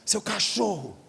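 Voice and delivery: a high, pointed wife's jab; mock wife retort. Wife jabbing back at her car-loving husband, high pointed retort. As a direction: snap at the husband like an offended wife.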